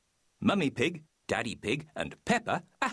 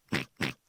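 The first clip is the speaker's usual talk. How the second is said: grunt; 9 semitones lower than usual. A narrator's reading. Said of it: "grunts George".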